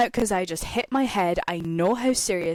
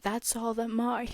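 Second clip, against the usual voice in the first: chill, mellow guy; 3 semitones higher than usual. Retold or imitated. Ride worker soothing shaken riders who fell out, chill and mellow. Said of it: "He was so chill, so mellow".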